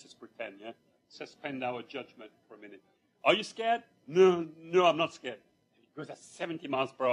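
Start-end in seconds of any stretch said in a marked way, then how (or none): 3.2-3.8 high, louder mock taunt; teasing taunt. Driver taunts boy, rising speed. 4.1-5.4 put-on louder protest from the boy; boyish bravado. Boy insists bravely.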